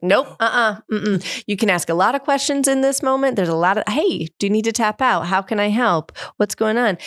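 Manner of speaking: mock-snippy reply, retold; sarcastic snap. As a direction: cut him off with sarcasm. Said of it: "I'm, like, sarcastic, I'm snippy".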